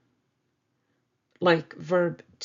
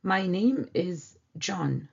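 "My name is John" said slowly; slow translation; slower than usual. Shown as a demonstration. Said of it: "they would mention their name".

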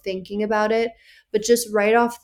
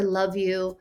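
clipped casual. Shown as a demonstration.

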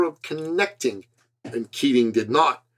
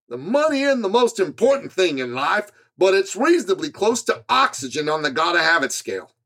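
a light, slightly higher imitation of a Georgia accent; Zig Ziglar Georgia accent; 4 semitones higher than usual. Author quoting a motivational speaker, light mock Georgia accent. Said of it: "butchering his fabulous Georgia accent".

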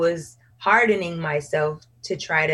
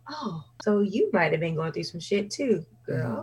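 soft inner voice; whispered aside; 6 dB quieter than usual. Retold or imitated. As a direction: hush it like a private thought. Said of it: "and it's like".

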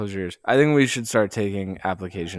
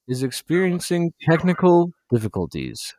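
announcer voice; 4 semitones higher than usual. Pretend. Mock announcement of technical difficulties.

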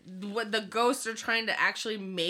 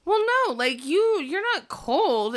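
much higher, louder mock reassurance; mock reassuring man; 10 semitones higher, 4 dB louder than usual. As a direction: ham it up high and loud, slowing at the end. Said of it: "he's like".

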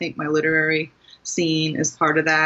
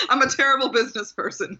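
laughing; 7 semitones higher, faster than usual. Real, not acted. Self-mocking while laughing.

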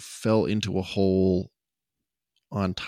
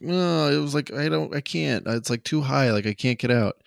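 put-on higher pleading kid voice; whiny kid; 5 semitones higher than usual. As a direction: whine like a scared child. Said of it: "he goes back and he's like".

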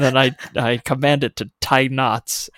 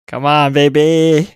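drawn-out pleading cheer, louder at the end; urging the dice; 6 dB louder, slower than usual. Real, not acted.

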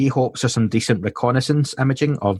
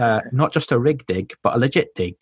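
the phrase redone in a light English accent; playful put-on English accent; mild English accent; 2 semitones higher than usual. Shown as a demonstration. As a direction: rig dig, legit dig in an English accent. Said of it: "That was my English accent".

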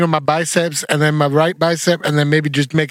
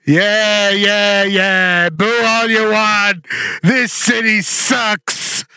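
sneering wrestling villain; 3 semitones higher, much slower than usual. Pretend. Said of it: "Do you wanna be heel?".

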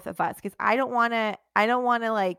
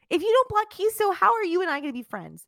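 mock outrage; 11 semitones higher, 4 dB louder than usual. Mock pleading.

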